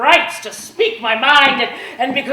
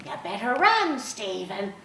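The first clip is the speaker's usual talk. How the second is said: urgent hush; 7 dB quieter than usual. Retold or imitated. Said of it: "I heard her say".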